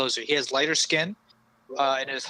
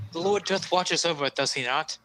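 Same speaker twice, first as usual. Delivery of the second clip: lightly voiced devout knight; a hint of a solemn, pious paladin; 3 semitones higher than usual. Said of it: "he says".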